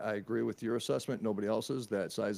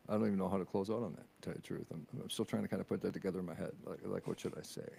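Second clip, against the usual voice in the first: hushed and low, unsure how to sign off; low quiet voice; 5 semitones lower, 7 dB quieter than usual. Real, not acted. Host unsure how to close the show, low hushed voice. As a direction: drop to a low near-whisper. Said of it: "that's kinda why I'm talking like this right now".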